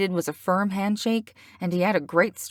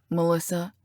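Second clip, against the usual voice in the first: intimate. Acted. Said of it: "sounded so intimate".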